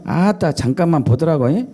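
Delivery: Jeolla accent with tagged-on ending; Jeolla dialect. Shown as a demonstration. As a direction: imitate a Jeolla local. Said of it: "전라도".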